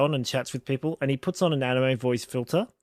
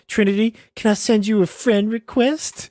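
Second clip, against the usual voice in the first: high eager voice; 7 semitones higher than usual. Retold or imitated. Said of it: "so he's like".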